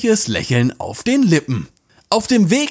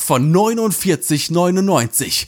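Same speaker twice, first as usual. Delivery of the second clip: pushy infomercial sales voice, selling hard; teleshopping pitch. Pretend. Host parodies a teleshopping ad, pushy sales pitch. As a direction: hype up the bargain like a TV shopping host. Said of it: "falsches Format".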